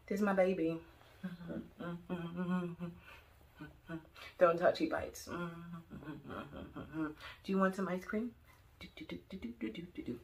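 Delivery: put-on baby talk to a pet; doting dog owner. Carrying her chihuahua, cooing baby talk to it. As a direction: coo to the little dog.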